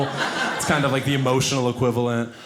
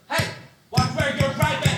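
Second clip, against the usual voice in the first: tiny high-pitched squeak of a yell; timid squeak at the driver, way up high; squeaky high yelp; 11 semitones higher than usual. Shown as a demonstration. Comic squeaking at the car that almost hit him. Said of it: "It was more like this".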